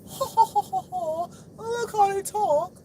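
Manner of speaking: high, put-on laughing voice; hammed-up high mocking cackle. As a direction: imitate their sneering laughter, very high. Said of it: "to talk like this".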